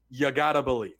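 "You gotta believe" run together as gotta; the New Yorker's gotta; New York way. Shown as a demonstration. Fan showing how New Yorkers say the cry, gotta. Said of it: "there's no New Yorker that doesn't say it like that".

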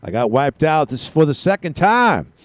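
put-on southern accent, rising at the end; mild mock southern soundbite voice; imitated southern accent. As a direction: imitate a southern storm victim. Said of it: "they got the southern accent".

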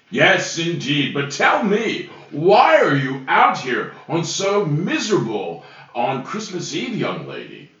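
lightly voiced kindly Santa; Santa Claus voice. Santa talking to the woman on the bridge, lightly voiced. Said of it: "That was my best Santa Claus".

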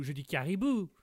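"caribou" without heavy Québécois twang; careful caribou. Shown as a demonstration. Québécois guest demonstrates his French, "caribou" said carefully. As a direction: say "caribou" neatly, in standard French. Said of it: "Si je dis caribou".

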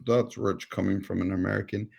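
lightly attempted Saudi accent; a faint, poor attempt at a Saudi accent; half-hearted Saudi accent. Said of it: "might not be the best Saudi accent".

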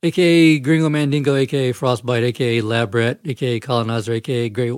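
reeling off names short of breath; running out of air. Real, not acted. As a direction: push the list out on the last air. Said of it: "I'm running out of breath already".

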